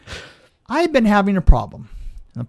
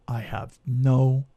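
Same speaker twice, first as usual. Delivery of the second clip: deadpan denial; 6 semitones lower, 3 dB quieter than usual. Retold or imitated. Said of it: "absolutely dead stone faced".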